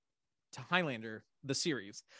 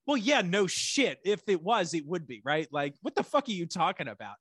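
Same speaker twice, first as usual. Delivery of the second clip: exasperated retort; 2 semitones higher, 3 dB louder than usual. Retold or imitated. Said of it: "And it's like".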